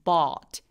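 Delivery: "but" with the jaw and throat wide open. Shown as a demonstration. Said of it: "목젖을 확 보여주는 느낌으로".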